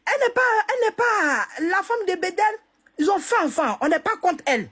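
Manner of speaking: crying, pitch high and strained; tearful. Real, not acted. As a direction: plead through tears. Tearful plea defending the widow.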